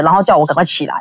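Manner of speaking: normal talking voice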